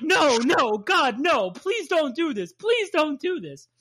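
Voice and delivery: hammed-up dread, climbing in pitch; mock panicked pleading. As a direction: beg like a frightened passenger. Voicing terrified passengers begging drivers.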